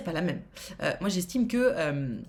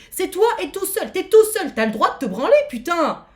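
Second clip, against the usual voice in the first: louder, heated outburst, swearing for emphasis; worked-up rant; 2 semitones higher, 5 dB louder than usual. Real, not acted. Streamer heatedly defends a viewer's privacy, angry and loud. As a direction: let the anger spill out as you defend him. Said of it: "Pardon, je m'énerve".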